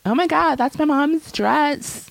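high, imitated shocked gasp of recognition; mock horror, slowing on the last words; mortifying discovery. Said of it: "it's mortifying".

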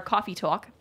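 put-on light Brooklyn accent on coffee talk; hint of a Brooklyn accent. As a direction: say coffee talk like a New Yorker. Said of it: "such a good Brooklyn accent".

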